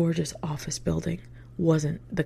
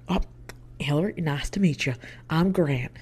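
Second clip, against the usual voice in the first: imitated Southern interviewer introducing himself; hearty Southern-accented hello; thick Southern accent. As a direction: put on a thick Southern greeting. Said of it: "with a thick Southern accent".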